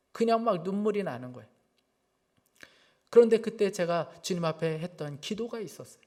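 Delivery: ordinary delivery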